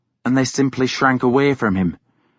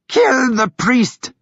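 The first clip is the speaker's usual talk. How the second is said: high, slow, frenzied scream; screamed order; 11 semitones higher, slower than usual. A narrator's reading. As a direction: scream it at the dogs like a madwoman. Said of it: "she screamed at the dogs".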